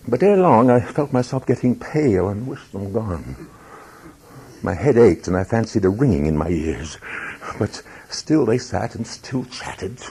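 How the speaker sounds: measured, brooding storyteller reading a tale aloud; dramatic story narration. A narrator's reading. Narrator recounting the officers' visit, brooding dramatic reading. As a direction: read it like a tense confession.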